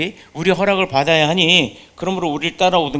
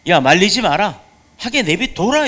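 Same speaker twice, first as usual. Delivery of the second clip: higher, firm voice of Jesus telling them to let it be; Jesus speaking; 4 semitones higher, 4 dB louder than usual. Acted. Jesus telling his disciples not to stop him, firm. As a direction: let them be, said with calm command. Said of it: "예수께서 이르시되".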